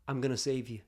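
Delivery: soft, low, near-whispered promise; hushed vow. Retold or imitated. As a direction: retell it as a quiet, earnest pledge. Tender vow to crying girl.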